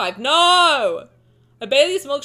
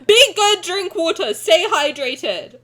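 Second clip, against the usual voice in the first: mock scolding; 4 semitones higher, 5 dB louder than usual. Real, not acted. Scolding chat.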